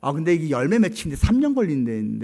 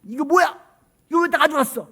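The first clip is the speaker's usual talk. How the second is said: high, indignant retold demand; mock angry outburst; 9 semitones higher than usual. 선교사가 원주민 대표에게 따지듯, 높고 화난 목소리. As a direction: act out the missionary's angry questions. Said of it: "막 화를 냈어요".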